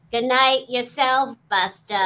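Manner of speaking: Janine's line. Retold or imitated. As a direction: deliver it like the receptionist signing off. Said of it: "the way this was said was".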